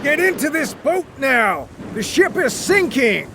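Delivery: high, pressing shouted order; urgent shout. Acted. Captain ordering Wyatt into the boat, high shout. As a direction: order him into the boat now. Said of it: "shouted the captain".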